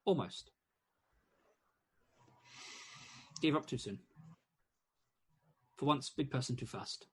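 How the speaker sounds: hummingbird voice. Acted. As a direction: squeak it out like a tiny bossy bird. Hummingbird speaks to the dwarf.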